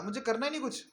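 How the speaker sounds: high, fed-up outburst of a disillusioned devotee; frustrated quitter. Retold or imitated. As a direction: throw up your hands in disgust. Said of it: "वो छोड़ देगा".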